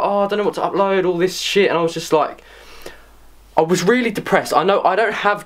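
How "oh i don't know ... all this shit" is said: high, fast mopey whine; whiny self-pity. Retold or imitated. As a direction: whine it like a sulking kid. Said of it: "I was like".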